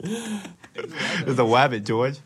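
slow, dopey impression with R turned to W; slow mock speech impediment; Lenny. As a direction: play a simple-minded big guy, drawn out. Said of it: "You sound like Lenny".

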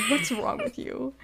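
very high-pitched retold disbelief; mock exasperation. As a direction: imitate his baffled outcry in a high voice. Man's exasperation in retold quarrel.

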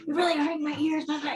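squeaky caricature of an annoyed dad; imitating husband. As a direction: parody the husband's complaint. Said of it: "he was like".

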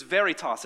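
"veritas" said as VEH-ree-tahs with the stress on the first syllable; Latin word veritas. Shown as a demonstration. Preacher showing the Latin word to his listeners, careful demo. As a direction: spell out "veritas" as VEH-ree-tahs so all can repeat it. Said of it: "Everyone say veritas".

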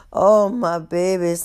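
lightly voiced winded old woman; slow, drawn-out fond sigh; out of breath. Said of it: "she is out of breath".

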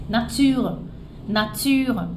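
nature stopped at the R, no final vowel; simplified nature. Shown as a demonstration. Teacher giving an easier version of nature. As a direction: cut nature off right at the R. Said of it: "você fala só até o R".

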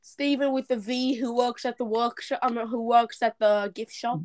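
put-on British accent with dropped r's; put-on British character voice; imitated British accent. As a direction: mimic a British shop worker introducing himself. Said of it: "Do a British accent".

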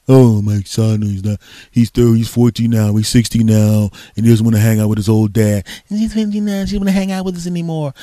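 loud, mock-mournful parent complaining; hammed-up lament of a neglected parent; mock whiny parent. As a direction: whine like a sad dad whose son won't visit.

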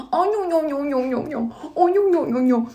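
high cooing nhon nhon to a pet; baby talk to a cat. Retold or imitated. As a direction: coo like a man smooching his cat. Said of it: "pega na gata e começa assim".

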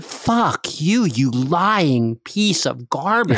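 a touch of retold fury; imagined retort. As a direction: spit it back at the pastor, half-joking. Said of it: "to just stop and say".

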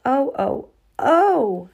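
high excited gasps of delight. Acted. Girl delighted by her decorated tools, excited. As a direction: sound thrilled at the gift.

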